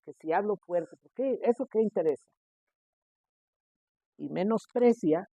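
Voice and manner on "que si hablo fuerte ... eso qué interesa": higher, mocking voice of a careless believer; dismissive scoff. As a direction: scoff it off like the rule is silly. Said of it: "Puede decir alguien". (voz burlona y desdeñosa, más aguda)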